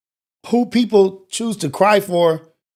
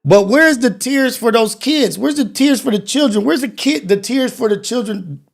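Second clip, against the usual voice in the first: louder, higher challenge on each tears; heated demand; 5 semitones higher, 3 dB louder than usual. Real, not acted. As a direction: push the question, raised and indignant. Angry questions after crying clip.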